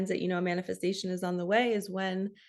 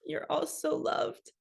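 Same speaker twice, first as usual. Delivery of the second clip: slow, breathy whisper through tears; real tear-choked whisper; tearful whisper; 6 semitones higher, slower than usual. Real, not acted. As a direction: barely voice it, still crying. Tearful after crying over dad.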